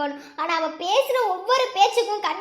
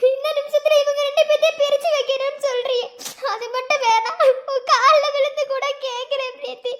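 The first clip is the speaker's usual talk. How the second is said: high, choked begging, slowing at the end; tearful pleading; 4 semitones higher than usual. Acted. Brother begging Preethi not to hurt his sister, tearful. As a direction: beg with a breaking voice.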